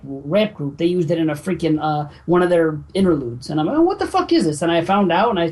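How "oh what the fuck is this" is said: much higher, puzzled disbelief; mock bafflement. Fan first hearing the gag in a song, acting baffled. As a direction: replay your baffled first reaction.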